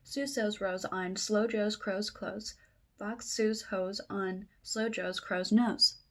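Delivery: brisk tongue twister in one breath; real fast. Real, not acted. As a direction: run the rhyming words together quickly. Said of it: "I said that real fast".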